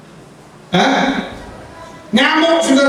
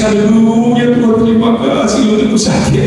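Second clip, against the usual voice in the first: put-on wail of knee pain; mock tearful prayer. Preacher acting someone thanking God despite a sore knee, mock crying. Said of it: "sambil nangis ya".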